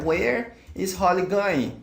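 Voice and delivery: each word clear and unhurried; slow, careful English. Shown as a demonstration. Teacher to students, modelling the question slowly. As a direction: spell out the question slowly for learners. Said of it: "models the answer for students".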